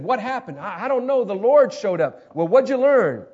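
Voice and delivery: lightly hammed-up question and answer; mock conference chat. Acted exchange after a wild conference.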